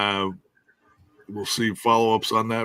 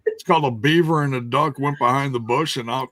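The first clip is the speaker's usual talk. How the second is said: laughing; 3 semitones higher, 6 dB louder than usual. Real, not acted. Laughing joke telling.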